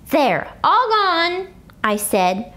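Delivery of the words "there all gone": slow, sweetly teasing. A narrator's reading. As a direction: tease her, drawing it out. Teasing May slowly.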